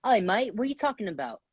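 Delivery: attempted British accent. Contestant showing the host his accent for a challenge, in an attempted British accent. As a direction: try a casual British "mate" greeting. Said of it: "This is my British accent".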